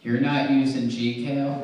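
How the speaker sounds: mock outrage drawn out; incredulous. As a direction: hold the phone, you don't use that?. Husband shocked at no Gcal.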